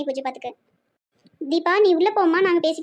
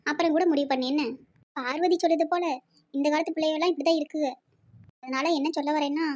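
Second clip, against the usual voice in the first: soft, low-key coaxing; calm, quiet appeal to relent; gentle persuasion; 3 semitones lower, 4 dB quieter than usual. Acted. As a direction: talk her round softly. Relatives gently persuade the upset mother.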